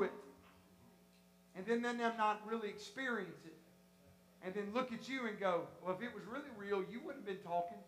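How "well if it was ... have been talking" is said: low, soft, offhand quote; lightly voiced sceptic; doubting friend. Friend questioning the preacher's experience afterwards, quietly doubtful.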